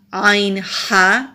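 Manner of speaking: عین ہا drawn out slowly from the throat; throat letters sounded out. Shown as a demonstration. Teacher sounds out the throat letters slowly. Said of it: "چھ حروف ہلکی".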